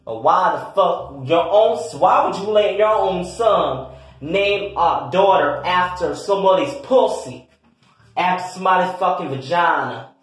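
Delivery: outraged questioning. Acted. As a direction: demand answers in indignant disbelief. Acted outrage at the child's name.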